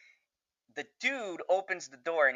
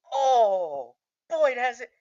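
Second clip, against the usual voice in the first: high, loud fan wail; retold excited reaction; 9 semitones higher, 4 dB louder, slower than usual. Fan learning the officer helped Boyd, high excited wail. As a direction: cry it out, reliving the thrill.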